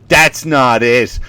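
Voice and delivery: slow, weighty put-down; mock stock saying. Commenters sticking to sayings, slow mock verdict. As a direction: stretch out the canned phrase. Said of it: "certain sayings that they get".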